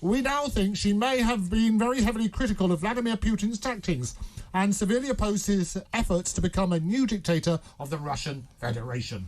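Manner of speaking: script read in a lightly acted informant voice. Reading his script to a colleague, lightly acted informant voice. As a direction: play the secret informant, barely changed. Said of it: "this is my script".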